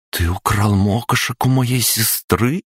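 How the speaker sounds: surprised goddess. Acted. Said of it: "удивилась Марена".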